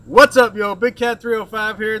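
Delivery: loud hype intro. Real, not acted. Host greeting viewers at the creek, loud hype shout. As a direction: shout the greeting out big and bright.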